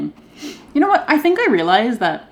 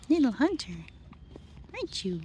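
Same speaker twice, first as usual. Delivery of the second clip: higher sing-song cooing; 5 semitones higher, 12 dB quieter than usual. Real, not acted. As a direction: coo it up high at the kitten. Cooing at the cat.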